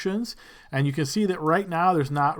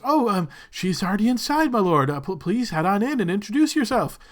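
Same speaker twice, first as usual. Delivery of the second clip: higher, eager attendant voice; eager servant; 4 semitones higher than usual. Acted. Servant eagerly directs the lord inside, higher-pitched. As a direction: fluster politely toward the lord.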